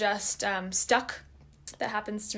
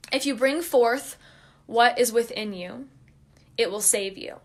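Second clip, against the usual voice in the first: quote reading. Shown as a demonstration. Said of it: "I'm just gonna read that again".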